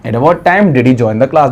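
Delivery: slow, deliberate teacher model answer; teacher modelling slowly; slow model sentence. Shown as a demonstration. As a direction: lay each word out slowly. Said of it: "तो फिर क्या बोलोगे?".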